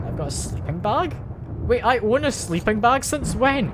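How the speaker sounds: baffled, voice climbing in disbelief; surprised. Real, not acted. Player finding a forgotten item mid-game, surprised. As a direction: question it like news to you. Discovers an unknown sleeping bag in inventory.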